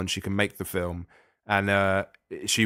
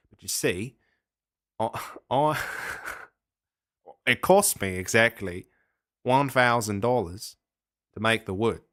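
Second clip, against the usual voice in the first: put-on Australian accent. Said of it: "you were indulging your Australian accent there".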